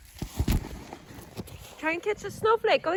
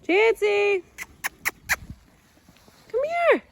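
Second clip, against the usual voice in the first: calling out; 3 semitones higher, slower than usual. Real, not acted. Calling the dog again.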